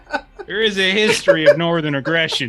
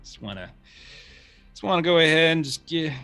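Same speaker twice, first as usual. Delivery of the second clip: deputy voice; 3 semitones lower than usual. Acted.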